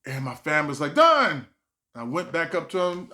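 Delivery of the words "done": high loud mock family. Comic's family, mock high voice. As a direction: bark it out high.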